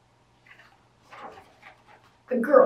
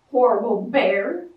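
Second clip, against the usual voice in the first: squeaky bat; 5 semitones lower, 6 dB louder than usual. A narrator's reading. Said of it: "Bat squeaked".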